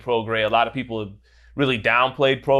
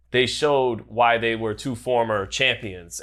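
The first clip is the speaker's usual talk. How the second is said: slow, leaning hard on champions; stress on champions; slower than usual. Real, not acted. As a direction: land the word champions with weight. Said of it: "emphasis on the word champions".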